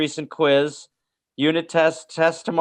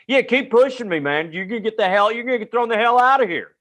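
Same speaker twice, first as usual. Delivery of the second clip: mock angry teacher; 7 semitones higher than usual. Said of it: "but he'd go".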